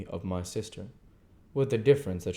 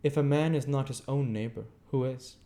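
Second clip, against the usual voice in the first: gentleman; 6 semitones higher than usual. Acted. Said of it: "returned Cousin Raymond".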